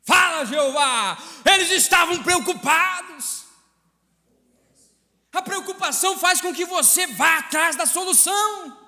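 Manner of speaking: high, insistent pulpit delivery; impassioned preaching. Real, not acted. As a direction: drive each phrase home, stretching key lines. Preaches at full force.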